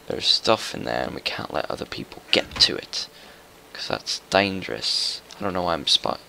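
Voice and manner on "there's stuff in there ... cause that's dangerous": mock British accent, badly faked; half-hearted fake British voice; terrible British accent. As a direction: put on a hammy British accent. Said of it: "speaking in a terrible British accent".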